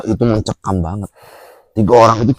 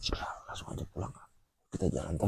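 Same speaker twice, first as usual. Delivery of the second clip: soft, much softer whisper urging to go home; whispered reply; 4 semitones lower, 19 dB quieter, much faster than usual. Retold or imitated. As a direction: hush him along, just breathe the words. Kuncen's hushed reply retold. (berbisik pelan menyuruh pulang)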